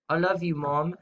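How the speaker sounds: put-on British accent for a pun. Shown as a demonstration. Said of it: "say it in your British accent".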